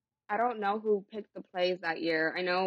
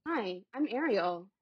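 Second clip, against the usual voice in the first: put-on valley girl voice; 3 semitones higher than usual. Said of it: "My Valley girl was like".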